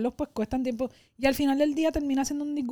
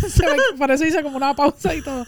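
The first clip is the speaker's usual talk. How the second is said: louder, laughing through the words; amused; 2 semitones higher, 6 dB louder than usual. Real, not acted. Guest explains nearly saying a name, amused and laughing. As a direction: laugh while explaining the slip.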